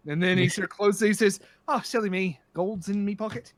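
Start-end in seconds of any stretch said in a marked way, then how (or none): 1.7-3.5 light, imitated Irish brogue; Irish accent. Drunk pirate remembering his gold, light Irish accent. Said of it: "how bad my Irish accent is".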